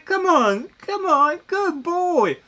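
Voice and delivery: high sing-song pet coaxing; coaxing a dog. Retold or imitated. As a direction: plead with the dog to come back. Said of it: "I mean, I'm pl".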